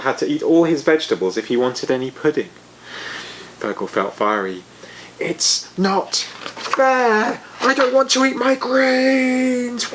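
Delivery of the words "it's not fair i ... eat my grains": very high, slow whiny protest; angry little dragon. A narrator's reading. Fergal protesting to his dad about vegetables, angrily. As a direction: stamp your foot and refuse.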